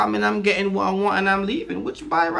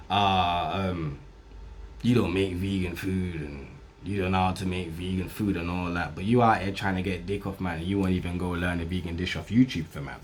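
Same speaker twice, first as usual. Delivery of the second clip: mocking her excuse; 8 dB quieter than usual. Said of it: "saying something stupid like".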